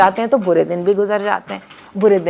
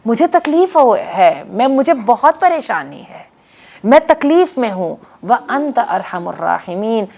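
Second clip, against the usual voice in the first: anguished plea; 3 semitones higher than usual. Retold or imitated. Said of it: "ایوب نے اپنے رب کو بلایا اور کہا".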